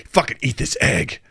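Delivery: mock gunman losing it; menacing gunman. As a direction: bark it like a crazed robber on a bus. Gunman forcing egg.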